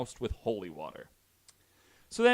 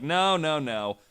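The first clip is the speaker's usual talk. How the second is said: higher, louder, fast brush-off; mock dismissive priests; 5 semitones higher, 7 dB louder than usual. Priests brushing off the minister's wife, mock dismissive brush-off. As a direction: wave her warning away breezily. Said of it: "And they were like".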